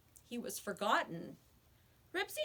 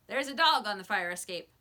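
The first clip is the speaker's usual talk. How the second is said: calling out; 8 dB louder than usual. A narrator's reading. Calling into the shop.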